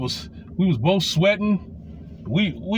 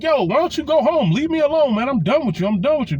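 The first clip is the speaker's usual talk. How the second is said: imitated angry yelling; 7 semitones higher than usual. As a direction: yell at her to go home and leave you be. Telling off girlfriend in street.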